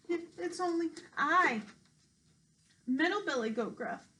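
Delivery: high, stammering frightened goat; trembling goat. Acted. Scared middle goat answers the troll, high trembling stammer. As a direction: quaver high with fear. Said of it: "shook so hard he almost fell down".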